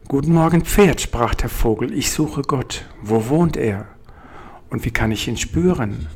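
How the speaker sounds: bird calling up keenly to the horse; eager little bird. Acted.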